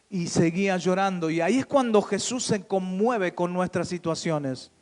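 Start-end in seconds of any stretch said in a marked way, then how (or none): none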